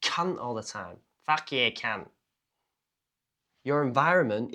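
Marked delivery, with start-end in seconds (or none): 0.0-0.4 mock Australian accent, pitched up; one word in a put-on Australian accent. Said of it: "you'll have an Australian ac-, accent". 1.2-2.1 casual mock-Aussie swearing; playful imitation of Australian slang; Australian accent. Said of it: "you'll have an Australian ac-, accent".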